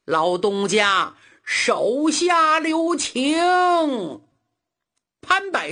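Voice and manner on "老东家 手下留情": a drawn-out cry for mercy, the last words stretched high and slow; shouting plea. Acted. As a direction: call out begging him to stop. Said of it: "高喊一声". (高声拖长地喊求情)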